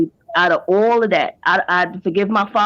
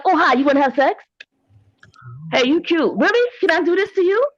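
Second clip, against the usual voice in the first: high, playful flirty voice, rising sharply; mock flirty come-on; 9 semitones higher than usual. Imitating her younger self flirting with guys. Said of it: "I'm like".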